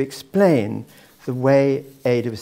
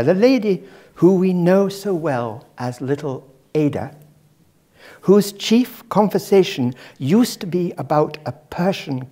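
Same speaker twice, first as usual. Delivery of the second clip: put-on a tentative stab at a Scottish accent, slightly higher; attempted Scottish accent; 4 semitones higher, 3 dB louder than usual. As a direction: try a Scottish lady's voice, not quite landing it. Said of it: "I can't do the Scottish accent, I'll try".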